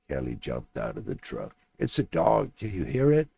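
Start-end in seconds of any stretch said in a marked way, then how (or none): 1.8-3.3 high, loud excited shout; excited yell. Acted. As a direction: yell it out, thrilled at the sound. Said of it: "she yelled".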